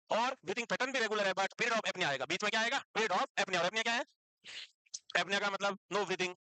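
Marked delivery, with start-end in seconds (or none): 5.2-6.3 very slow, spelling out the definition for notes; teacher dictating the key phrase slowly; slow, emphatic dictation. Shown as a demonstration. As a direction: drag each word out so students can write. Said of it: "teacher stressing definition slowly".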